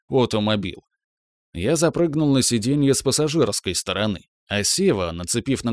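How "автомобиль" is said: "автомобиль" said the English way, like automobile; English-style pronunciation. Retold or imitated. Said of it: "произнёс на английский манер".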